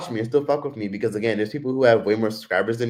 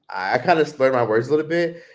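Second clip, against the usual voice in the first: ordinary talk, nothing marked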